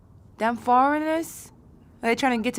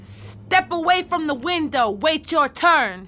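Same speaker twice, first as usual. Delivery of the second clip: booming command; 4 semitones higher than usual. Shown as a demonstration. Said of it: "Gwen got a booming voice".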